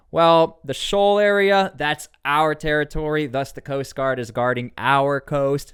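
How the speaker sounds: mock official proclaiming territory; voicing China. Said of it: "says China".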